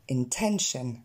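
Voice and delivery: "intention" opening on a short en-like sound; pronunciation model. Shown as a demonstration. Teacher training learners on the E sound, pronunciation model. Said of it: "s'entraîner avec le son E".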